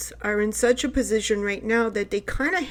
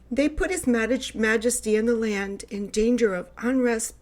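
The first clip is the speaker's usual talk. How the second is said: lightly put-on British accent as a court astrologer. Court astrologer advising the king on his planets, mock British accent. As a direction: play at formal British-accented counsel to a king. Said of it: "here it goes in my best, uh, British, uh, accent".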